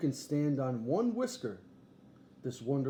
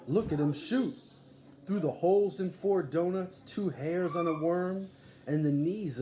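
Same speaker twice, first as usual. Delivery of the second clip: excited showman; 3 semitones higher, 4 dB louder than usual. Acted. Showman hyping the bowman act.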